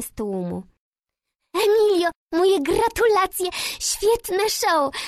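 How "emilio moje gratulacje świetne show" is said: loud, high, slowed exclamation; exclaiming. A narrator's reading. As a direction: cry out the congratulations. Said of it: "sapiąc wykrzyknęła".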